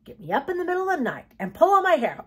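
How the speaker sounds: fast, high, loud grumble; grumbling. A narrator's reading. Boy woken early, grumbling. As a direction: complain crossly in a rush. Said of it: "grumbled Dill".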